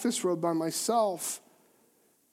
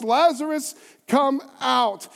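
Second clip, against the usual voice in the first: raised calling voice, higher and a bit louder; mild shout; 5 semitones higher, 5 dB louder, slower than usual. Acted. Jesus calling Lazarus from outside the tomb, a raised call. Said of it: "he shouts".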